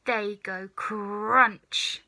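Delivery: very slow, savoured; relishing. Acted. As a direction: chew on the word crunch. Grandma relishing.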